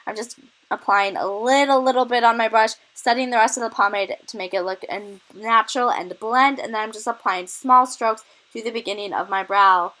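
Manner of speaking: breathless from a cold; short of breath while talking. Real, not acted. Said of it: "Wow, guys, I'm so out of breath".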